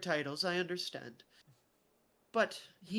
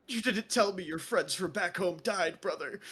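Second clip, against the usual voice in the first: teary Royce; 3 semitones higher than usual. Acted. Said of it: "starts tearing up a little bit".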